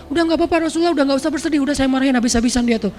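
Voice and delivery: high, quick reassuring; eager reassurance. Retold or imitated. Umar reassuring the Prophet, high and quick. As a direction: hurry to comfort him. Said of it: "kata Umar".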